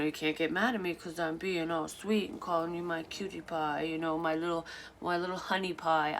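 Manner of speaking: lightly voiced mock baby talk; a hint of sugary baby voice, teasing. Ex imitating him sweet-talking her in a light baby voice. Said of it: "he'd say shit like that in that voice".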